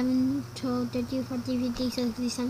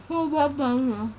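cheeks stuffed full. Real, not acted. Marshmallows stuffed in mouth.

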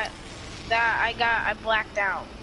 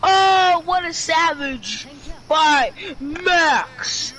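hyped cheer; 2 semitones higher, 4 dB louder, much slower than usual. Real, not acted. Cheering a teammate's play.

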